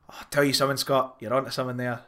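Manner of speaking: imitating a friend in a thicker Scottish accent. Quoting friend Archie to a podcast cohost, thick Scottish accent. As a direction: lay the Scottish accent on thick, playful retelling. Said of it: "that thicker Scotch accent that you've given to them".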